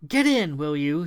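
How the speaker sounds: loud urgent call; yelling. Acted. Thomasina yells at them to get in, loud call. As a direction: bark them into the car. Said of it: "she yelled".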